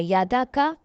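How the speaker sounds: quick short vowels; read quickly. Shown as a demonstration. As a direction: snap through يادا کا without stretching the vowel. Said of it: "ہم نے اس کو جلدی سے پڑھنا ہے".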